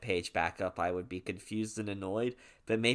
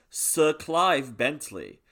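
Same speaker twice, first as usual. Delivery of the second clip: louder, lightly exaggerated British name; hammed-up British accent; 4 semitones higher, 7 dB louder, much slower than usual. British co-host relishing a very British name, hammed-up British accent. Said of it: "I'm allowed to do that because I'm actually British".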